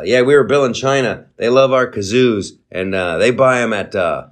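lightly voiced deadpan comedian impression; a hint of a dry deadpan comic selling nonsense; barely-changed deadpan comic voice, mock sincere; Norm Macdonald. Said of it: "I'm suddenly, I'm Norm Macdonald".

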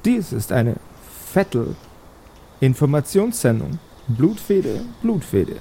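witch voice chanting a refrain between words; eerie hag skull announcing doom; cackling witch skull. Acted. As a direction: croak the bounty like a hag's broadcast. Talking skull of the hag speaks.

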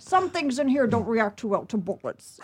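slow, measured mock Scottish actor; lightly faked Scottish burr, taking its time; amateur impression of a Scottish film star; Sean Connery. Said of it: "I did Sean Connery".

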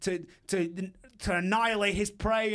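light hammed-up Australian nature-host accent; imitating fake Australian accent. Retelling the Bum Hunter to friends, lightly faked Australian accent. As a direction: mimic a knockoff Australian croc-hunter showing off a specimen. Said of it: "gave himself a fake Australian accent".

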